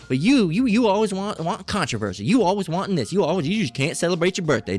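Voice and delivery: mock accusing parent. Parent comparing child to favored Raekwon, mock accusation. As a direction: imitate a parent picking on one child. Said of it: "They're gonna say, you know".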